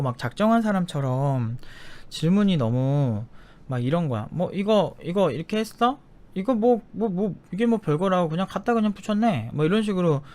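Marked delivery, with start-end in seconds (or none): 4.3-9.5 higher, mocking the candidate's project; rude dismissive quote. Interviewer belittling the applicant's project, snide and higher. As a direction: sneer at the work like a rude interviewer. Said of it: "되게 싸가지 없게 하는 거예요".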